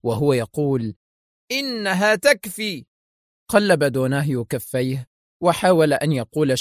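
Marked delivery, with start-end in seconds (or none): 1.5-2.8 slow, high, menacing; frightening voice. A narrator's reading. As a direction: draw it out as a threat. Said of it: "بدا صوت وملامح ديليشمسكي مخيفين".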